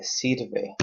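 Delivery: sirve slowed, weight on SIR; stress on the I. Shown as a demonstration. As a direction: lean on the I in sirve. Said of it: "on the I".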